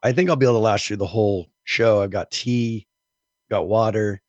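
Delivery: hoarse from a cold; raspy, scratchy throat from a virus. Real, not acted. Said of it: "I do have a scratchy voice".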